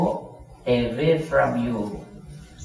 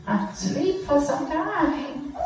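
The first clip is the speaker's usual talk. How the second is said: nagging mom. Pretend. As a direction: coax the child to sleep, half laughing. Mom urges sleep again.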